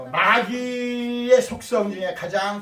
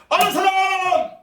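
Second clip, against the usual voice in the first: loud, drawn-out quizmaster's call; 11 semitones higher, 5 dB louder, slower than usual. Real, not acted. Pastor asks children who knows the opposite of greed, calling out. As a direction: throw the question out to the whole group.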